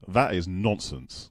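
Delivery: slow, deliberate British "that is nonsense"; drawn-out British delivery; British phrase demo. Shown as a demonstration. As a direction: say it slowly with a British accent. British phrase offered for imitation.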